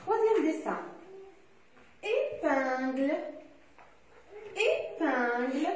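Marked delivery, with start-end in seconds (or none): 2.0-5.7 "Épingle" slowly, with each syllable drawn out; "Épingle" slow and deliberate; slow careful pronunciation. Shown as a demonstration. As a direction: stretch "Épingle" out for a class. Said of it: "Dans quelle syllabe".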